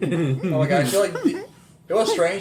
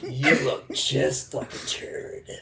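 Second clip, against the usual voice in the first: laughing whisper; 4 dB quieter, slower than usual. Real, not acted. Friend mocks turd comment.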